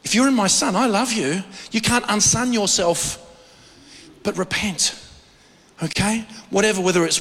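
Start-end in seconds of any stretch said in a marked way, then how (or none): 0.0-4.9 tender Lord voice. Retold or imitated. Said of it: "And the Lord says".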